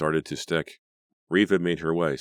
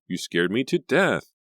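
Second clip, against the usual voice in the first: higher, louder upset cry; 7 semitones higher, 4 dB louder than usual. A narrator's reading. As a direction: cry out, shaken and angry. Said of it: "Reva cried".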